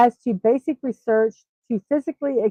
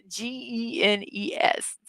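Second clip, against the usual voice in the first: spelled out slowly; 9 dB quieter, slower than usual. Shown as a demonstration.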